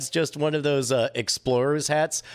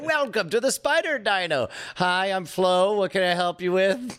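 diner waitress; 4 semitones higher than usual. Acted. Diner waitress Flo greeting.

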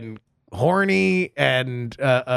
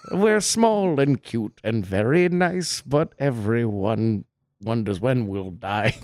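polite little creature; 5 semitones lower than usual. Pretend. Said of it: "polite Martian dinosaurs".

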